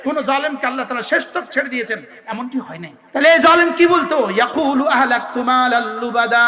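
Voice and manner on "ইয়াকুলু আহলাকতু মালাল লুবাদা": Quranic recitation. Acted. Preacher to congregation, reciting the verse in slow chant. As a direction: draw out the Arabic verse in melodic tone.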